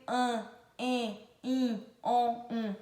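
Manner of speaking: "an, em, in, on, um" as nasal vowels, one by one. Shown as a demonstration. Teacher reciting the vowel digraphs for children, each nasalised. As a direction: list each nasal sound separately. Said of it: "é o som nasal".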